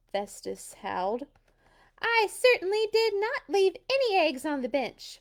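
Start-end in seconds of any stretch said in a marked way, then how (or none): 2.0-5.2 hissed. A narrator's reading. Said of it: "Mercury hissed".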